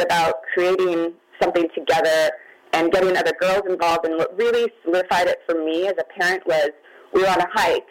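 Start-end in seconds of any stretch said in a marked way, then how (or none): 4.1-7.9 shaky voice, close to crying. Real, not acted. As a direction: voice shaking, holding back tears. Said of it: "my voice is shaking".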